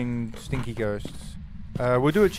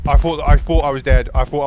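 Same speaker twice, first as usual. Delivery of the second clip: breathless relief; 9 dB louder than usual. Real, not acted. After the scare.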